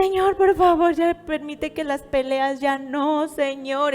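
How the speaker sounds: pleading prayer. Acted. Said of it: "muchas veces andamos orando".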